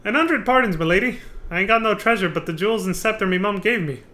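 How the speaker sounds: hammed-up rough pirate flirt. Streamer voicing a pirate hitting on a lady, mock pirate. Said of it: "This is hard to read".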